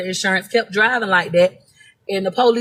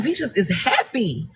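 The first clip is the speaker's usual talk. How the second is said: slow, soft words through a laugh; happy chuckle while saying it; laughing softly; 5 dB quieter, slower than usual. Real, not acted. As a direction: let the laugh spill into it. Dancing in the rain, laughing.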